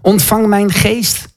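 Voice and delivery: retold dying prayer, stretched out slowly; calling on Jesus. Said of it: "roept hij Jezus aan en zegt".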